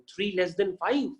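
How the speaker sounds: slow imitation of a student's wording; teacher imitating students' reading; wrong way demo. Shown as a demonstration. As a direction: read it slowly as students wrongly do. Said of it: "देखिए आप ऐसे बोलते हैं".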